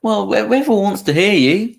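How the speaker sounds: talking through a mouthful of cookie; mouth full. Real, not acted. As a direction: chew while you speak. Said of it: "if you're gonna munch it".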